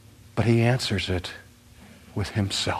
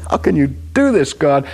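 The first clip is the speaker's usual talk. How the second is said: Job crying out; 4 semitones higher than usual. Acted. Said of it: "Job is saying".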